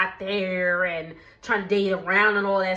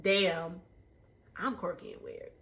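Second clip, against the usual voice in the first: mock self-pity; 4 semitones lower, 10 dB quieter than usual. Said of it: "I was like".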